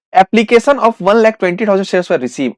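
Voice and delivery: very slow, deliberate reading; slow dictation. Acted. Teacher reads the question aloud for students, slowly dictating. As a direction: read the question out slowly, word by word.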